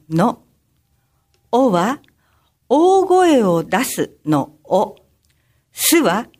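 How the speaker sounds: measured, sing-out teaching recital; slogan for children. Acted. Skit narrator teaching children a safety slogan, deliberate recital. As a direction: spell out the slogan piece by piece for children.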